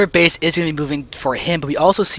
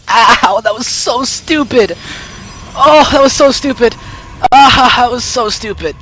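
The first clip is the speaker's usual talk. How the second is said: in pain; 4 semitones higher, 3 dB louder than usual. Real, not acted. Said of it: "And I hurt my hip".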